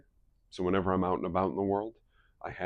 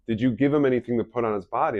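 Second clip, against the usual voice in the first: louder, fast demanding question; upset wife grilling Drew, fast and louder; 3 semitones higher, 6 dB louder, faster than usual. Retold or imitated. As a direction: rush the accusation.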